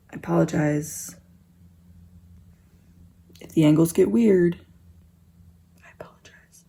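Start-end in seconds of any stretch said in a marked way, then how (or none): 5.8-6.6 barely audible, tiny whisper; hushed aside, nearly vanishing; whispered apology. Real, not acted. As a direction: apologize almost silently. Same apology repeated, whispered.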